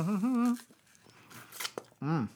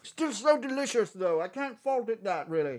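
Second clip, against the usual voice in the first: high character voice; 9 semitones higher than usual. Acted. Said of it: "This is Marwood eating an apple".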